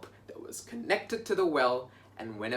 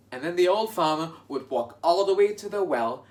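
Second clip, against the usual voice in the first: ordinary talk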